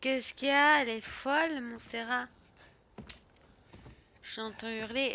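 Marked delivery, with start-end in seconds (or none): none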